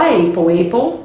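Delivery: "apple" wrongly said as AY-pol; "apple" starting like the letter A; mispronunciation demo. Shown as a demonstration. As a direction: say "apple" with the vowel of "ape". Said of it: "Tem gente que fala apple".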